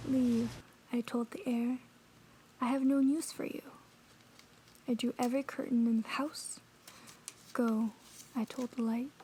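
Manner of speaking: measured poem reading with long pauses. Acted. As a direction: recite it line by line, letting each pause hang. Reads a poem aloud.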